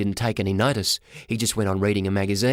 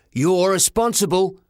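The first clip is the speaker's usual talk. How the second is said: high, slow, loud accusation; high-pitched boyish outrage; indignant boy; 7 semitones higher, 5 dB louder than usual. Acted. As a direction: lay the blame in a raised kid's voice. Boy confronts the porter.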